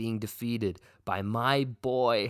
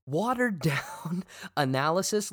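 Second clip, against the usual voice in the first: incredulous laugh; 4 semitones higher than usual. Real, not acted. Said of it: "repeats insult laughing".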